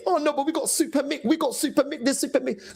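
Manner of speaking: mock their dreamy defence of Super Mick; mimicking fans.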